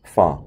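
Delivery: "far" R 없이 길게 파:; 끝 R을 빼고 "far" 말하기; British far. Shown as a demonstration. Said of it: "far이 아니라 far 이렇게 들리죠". (영국식 R 탈락 "far")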